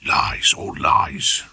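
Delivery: slow, breathless whisper. A narrator's reading. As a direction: hiss it under the breath, slowly.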